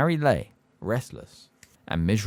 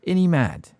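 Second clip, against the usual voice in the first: ain't he mad pushed higher and louder; insistent; 8 semitones higher, 4 dB louder than usual. Acted. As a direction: press Ern for agreement. Stan presses the question.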